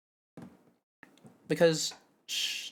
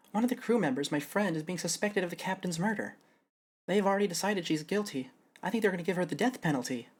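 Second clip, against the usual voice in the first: somewhat higher, upbeat client; lightly voiced Sasha; 4 semitones higher than usual. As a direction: plead the friend's case. Voicing Sasha.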